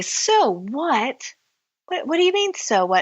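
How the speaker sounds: put-on rising outraged teen echo, jumping high on what; bratty teen repeating the question incredulously; indignant disbelief. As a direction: throw the words back at her in disbelief. Teenager retorts to counselor.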